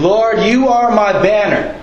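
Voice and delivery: waving the purple banner while praying; demo prayer. Shown as a demonstration. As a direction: lift it up to the Lord slowly. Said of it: "I'm not good at this yet".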